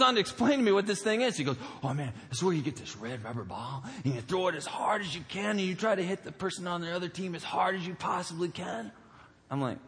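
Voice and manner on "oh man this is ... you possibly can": put-on overexcited kid. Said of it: "his eyes are bulging out".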